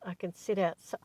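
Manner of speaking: hiccuping mid-sentence; hiccups. Real, not acted. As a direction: talk through the hiccups. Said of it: "I'm hiccuping".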